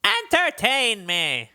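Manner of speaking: high, drawn-out royal demand; slow, pompous mock yell; yelled command. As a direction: play a prince calling out an order. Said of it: "Is that what you yell out".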